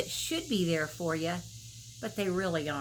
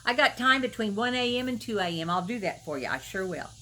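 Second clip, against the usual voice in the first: eager people-pleaser; 2 semitones higher than usual. Retold or imitated. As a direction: rattle off yeses like you can't say no.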